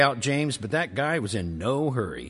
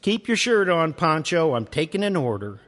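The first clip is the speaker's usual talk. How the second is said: higher, louder sassy waitress; 5 semitones higher, 3 dB louder than usual. Acted. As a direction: snap back playfully. Waitress snapping.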